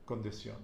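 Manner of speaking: "condición" stressed on the last syllable "ción"; final-syllable stress. Shown as a demonstration. Teacher confirming the rule, final stress on "condición". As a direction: let the weight fall on "ción" in "condición". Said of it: "accent over the O".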